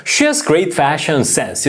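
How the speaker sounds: very slow, words drawn out; slow model sentence. Shown as a demonstration. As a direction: model it slowly for students. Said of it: "한 번 더". (천천히 또박또박 시범)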